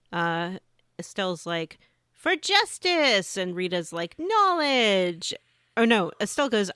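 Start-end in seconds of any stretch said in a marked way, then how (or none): 2.1-3.4 loud, high, drawn-out rallying cry; heroic battle cry. Acted. Game heroine shouting her finishing-move line, heroic cry. 4.2-5.4 high, loud shout falling away; battle cry. Acted. Game character answering her teammate's slogan, hammed-up battle cry.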